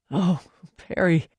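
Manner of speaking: crying out softly. Acted. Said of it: "he cried out softly".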